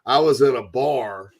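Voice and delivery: slow comedian's drawl, lightly imitated; Ron White. Host reading listener message, light comedian impression. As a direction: draw it out like a storytelling comic. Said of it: "I said it like Ron White a little bit".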